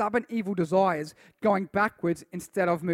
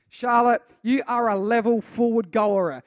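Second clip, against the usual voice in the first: slow and loud, building people up; rousing encouragement; 5 dB louder than usual. Acted. Pastor cheering on youth by name, rousing. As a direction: call them champions with fire. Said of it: "come out of agreement and go".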